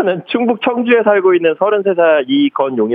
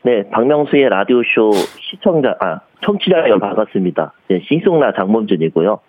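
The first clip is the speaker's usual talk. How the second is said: lower-pitched indie singer voice; impression of a singer; 6 semitones lower than usual. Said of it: "장범준 씨 모창하고 성대모사요".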